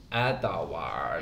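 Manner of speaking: low, drawn-out imitation, "Edward" in three syllables; pupils' mispronunciation. Teacher mimics kids who can't say "Edward", drawn out. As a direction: stretch "Edward" into ed-a-ward. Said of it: "can't just say Edwards. They have to go".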